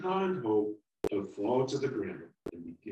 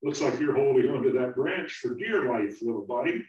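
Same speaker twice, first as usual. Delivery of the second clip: put-on chuckling older apple; 5 semitones higher, 9 dB louder than usual. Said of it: "chuckled and said".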